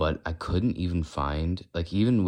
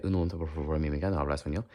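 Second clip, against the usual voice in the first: flowing Spanish in Mexican style; attempted Mexican-Spanish flow; Mexican Spanish accent; much faster than usual. Shown as a demonstration. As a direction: roll through it in a Spanish accent. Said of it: "Mexican or Spanish".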